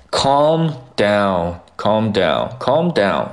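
"calm down" slowly, word by word; drawn-out teacher model of "calm down"; slow model reading. Shown as a demonstration. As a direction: stretch out "calm down" for learners. Teacher models new phrase slowly.

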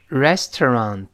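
"restaurant" slowly, all three syllables distinct. Shown as a demonstration. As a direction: give "restaurant" each full syllable and final t. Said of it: "我们再读一遍".

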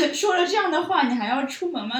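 loud, high incredulous outburst; aghast protest, retold at high volume; retold shock. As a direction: blurt it out in disbelief. Retells her shocked reaction to roommate.

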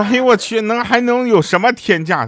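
high-pitched scoffing surprise; incredulous retort. Retold or imitated. Retelling his reply to a friend warning about prices, incredulous.

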